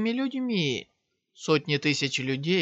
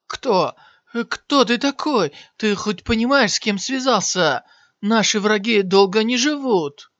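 higher and louder, shocked and threatening; stunned at first, then bluster threats; 6 semitones higher, 6 dB louder than usual. Acted. Fallen warrior shocked by Shiyan, shouting threats. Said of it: "с шоком сказал".

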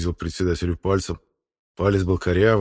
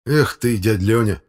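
mildly raised reproach; reproachful; 3 semitones higher, 4 dB louder, slower than usual. Acted. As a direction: chide him with some disappointment. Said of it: "укоризненно сказал Володька". (с укоризной)

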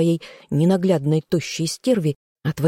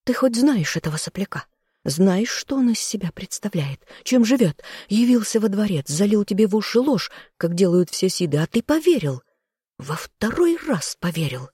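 higher, fast furious ranting woman; angry sister; 5 semitones higher than usual. A narrator's reading. Sister berating the king, furious and high. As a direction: rant at the fool brother.

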